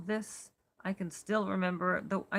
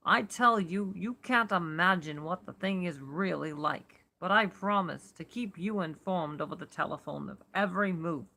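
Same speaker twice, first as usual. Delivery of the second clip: louder, steady New York-ish Warren; firm, unperturbed warning to a friend; mellow tenor; 4 dB louder than usual. Acted. Warren warning Carter to stay above, in a light New York accent. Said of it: "in his mellow tenor voice".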